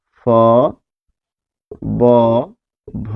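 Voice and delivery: ফ, ব, ভ said one by one with pauses and closed lips; demonstrating lip consonants. Shown as a demonstration. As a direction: carefully articulate each of ফ, ব, ভ as a bare syllable. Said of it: "উচ্চারণ করতে যাই".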